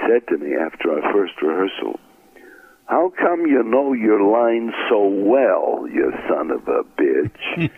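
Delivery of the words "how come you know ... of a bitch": slow, drawn-out mock accusation; needling a colleague, drawn out; mock-indignant question. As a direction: start high and slow, ease down on the insult. Retelling Benny's rehearsal remark.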